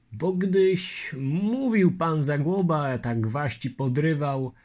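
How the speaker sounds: lightly played baffled Lithuanian; Litwin complaining. Litwin grumbling about Zagłoba's names, lightly voiced.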